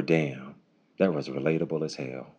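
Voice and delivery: low, soft understated reaction; impressed listener. Retold or imitated. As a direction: murmur it as you walk away. Voicing an impressed listener walking away.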